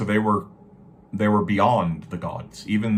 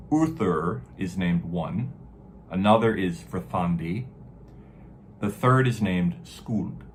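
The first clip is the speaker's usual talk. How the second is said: grave ancient myth telling. Shown as a demonstration. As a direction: intone the verse like a skald. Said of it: "So it says".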